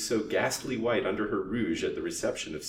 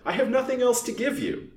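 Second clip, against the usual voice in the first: high, loud angry refusal; furious; 6 dB louder than usual. A narrator's reading. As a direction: refuse furiously, voice pitched right up. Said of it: "turned furiously on the old lace vendor".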